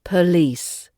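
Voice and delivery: "police" said as puh-LEECE; schwa in police. Shown as a demonstration. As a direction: reduce the O of "police" to a relaxed uh. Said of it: "the schwa is the first O".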